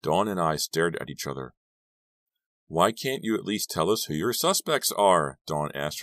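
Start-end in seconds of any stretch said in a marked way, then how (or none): 2.7-5.4 higher, louder demand climbing in pitch; voice rising. A narrator's reading. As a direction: let your voice climb as you demand answers. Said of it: "her voice rising".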